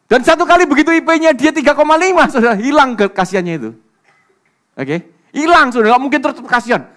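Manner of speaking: loud, high-pitched preacher's proclamation, easing towards the end; full-force preaching. Real, not acted. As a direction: drive the point home at a shout.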